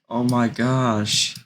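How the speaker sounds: Butcher's son. Acted. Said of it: "this is his son".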